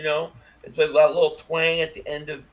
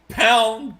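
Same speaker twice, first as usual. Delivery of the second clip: quoting himself; 4 semitones higher, 4 dB louder, slower than usual. Retold or imitated. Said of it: "And I always say pound".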